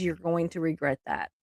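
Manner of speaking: softly, low and menacing; a hushed warning to her husband; quiet threat. Retold or imitated.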